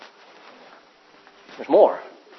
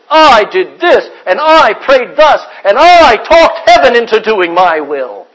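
mock bragging; 2 semitones higher, 6 dB louder, slower than usual. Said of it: "We want to stand up and brag and say".

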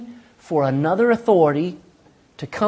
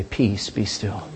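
slow, lower and softer, hushed command to the storm; calm command; 8 semitones lower, 5 dB quieter, much slower than usual. Retold or imitated. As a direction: still the sea with a low, slow word. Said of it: "stand at the bow ... and say".

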